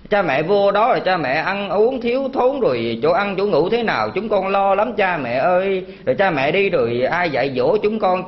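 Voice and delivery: lightly voiced pleading child, slowing on the cries; a hint of a weeping child begging; child crying. Monk voices a child crying to stop parents leaving for temple, mild mock sobbing plea. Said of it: "nó khóc".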